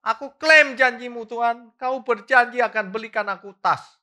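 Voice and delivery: high, loud, mock tearful begging; mock wailing plea. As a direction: ham up a whining mom crying for a bag. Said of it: "sambilnya nangis-nangis setiap hari". (rengekan pura-pura menangis, tinggi dan keras)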